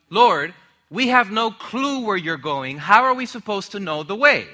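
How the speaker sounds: lightly voiced, baffled objection; puzzled disciple. Thomas questioning Jesus about the way, puzzled. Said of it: "So Thomas says".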